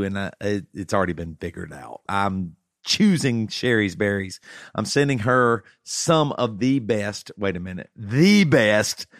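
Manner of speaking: upbeat sponsor read, punchy; hard sell ad. Acted. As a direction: sell the berries like a radio ad. Host reads sponsor ad.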